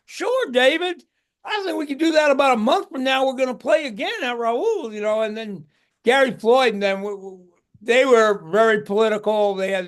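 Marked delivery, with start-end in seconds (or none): 0.1-4.9 lightly put-on Southern accent, easygoing and friendly. Randy agreeing to the gig in a Southern accent. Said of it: "He had that Southern accent".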